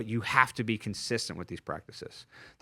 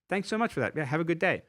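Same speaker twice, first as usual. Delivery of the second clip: higher-pitched, breezy mock thanks; breezy brush-off; 5 semitones higher, faster than usual. Brushing off a five-year-old nephew's criticism, breezy mock thanks.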